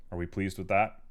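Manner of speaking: evenly pitched robotic questioning. Pretend. Streamer checking the viewer is satisfied, in robot voice. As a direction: carry on talking like a robot. Keeps up robot voice after demo.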